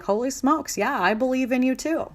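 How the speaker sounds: mock wide-eyed wow from friends; impressed friends. Others cheering on your big goal, amazed.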